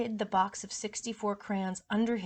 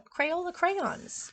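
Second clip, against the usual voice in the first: slow emphatic whine; 9 semitones higher, much slower than usual. Acted. Child complains.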